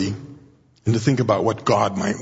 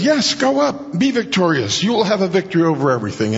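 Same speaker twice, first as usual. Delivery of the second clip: sarcastic; 6 semitones higher than usual. Retold or imitated. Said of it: "this is really strong sarcasm".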